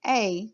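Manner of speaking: A said as a long "ay"; A held as a clear long "ay"; long A sound. Shown as a demonstration. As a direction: say A like its letter name. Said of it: "the vowel A is going to say its name".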